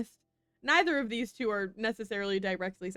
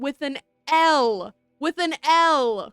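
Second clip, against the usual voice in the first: very slow, louder, fed-up correction; exasperated; 9 dB louder, much slower than usual. Real, not acted. Streamer fed up with her own misreading: slow, exasperated. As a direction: drag each word out in exasperation.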